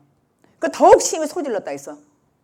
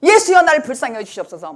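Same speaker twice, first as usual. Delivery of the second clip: mock loud cry; 5 dB louder than usual. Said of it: "더 큰 소리로".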